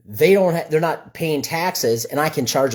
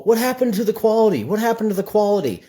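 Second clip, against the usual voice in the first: higher, mock-outraged complaint repeated twice; mock indignant customer; 7 semitones higher than usual. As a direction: imitate a baffled homeowner griping about bad work. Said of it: "people go".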